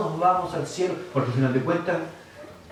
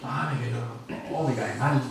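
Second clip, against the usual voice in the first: mock grudge; 7 semitones lower, 6 dB quieter, slower than usual. Mocking a cynical friend.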